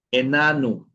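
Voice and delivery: "enano" starting with a clear eh; initial E kept. Shown as a demonstration. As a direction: model "enano" as eh-NAH-noo. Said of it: "¿Por qué yo pronuncio como E?".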